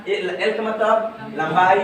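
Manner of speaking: L का मतलब लंबाई spelled out slowly, word by word, for notes; slow dictation. Shown as a demonstration. Teacher dictating the dimension symbols to the class, slow and spaced. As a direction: dictate it slowly so students can write. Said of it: "तो लिख दो यहाँ पे M".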